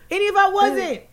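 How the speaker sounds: high, pressed rant; heated rant. Real, not acted. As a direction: rant at them, fired up. Ranting about being called hoe.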